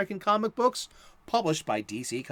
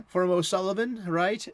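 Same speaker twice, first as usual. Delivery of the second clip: Irish brogue; 3 semitones higher, 3 dB louder than usual. Pretend. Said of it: "don't do the brogue".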